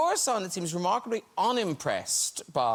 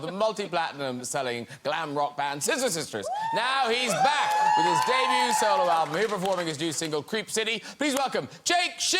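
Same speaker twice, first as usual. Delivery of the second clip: host introduction. Acted. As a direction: announce the band to the crowd. Introducing the musical guest.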